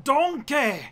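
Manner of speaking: loud, high ogre bellow; booming ogre shout; Shrek. Acted. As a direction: holler for a sidekick like the ogre. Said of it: "Do it".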